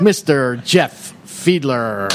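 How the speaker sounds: slow, drawn-out guest introduction; AM radio voice. Acted. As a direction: stretch the name like an announcer. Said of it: "There's my A M radio voice".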